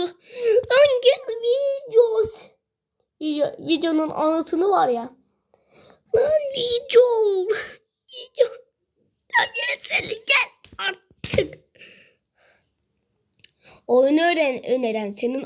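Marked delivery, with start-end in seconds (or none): 0.0-11.7 high, slow drawn-out call; high sing-song summons to the monster. Real, not acted. Calling out to the monster.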